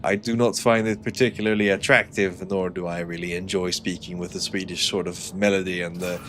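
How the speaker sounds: lightly Swedish-accented English. Shown as a demonstration. Streamer demonstrates their native accent, Swedish-accented English. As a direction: slip into a Swedish accent with its melody. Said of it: "if I spoke with a proper Swedish accent".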